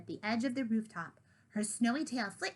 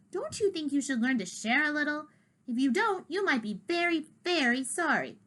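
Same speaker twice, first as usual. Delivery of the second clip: menacing cat; 5 semitones higher, 4 dB louder than usual. Acted. Duke threatens Kitty.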